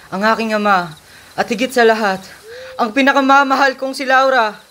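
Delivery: anguished cry. Acted. Bound hero laments lost love.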